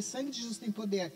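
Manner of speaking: spoken low and hushed, almost to herself; said under her breath. Shown as a demonstration. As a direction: murmur "Sangue de Jesus tem poder" softly, as a private prayer. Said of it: "Mas se eu falar".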